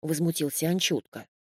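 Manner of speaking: plain reading voice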